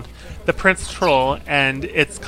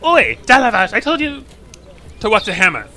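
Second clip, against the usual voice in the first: loud, higher shout across the workshop; scolding shout; 8 semitones higher, 5 dB louder than usual. Acted. Shipwright scolds the worker across the yard, loud higher shout. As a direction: bark a rebuke at a careless worker. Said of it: "she's like".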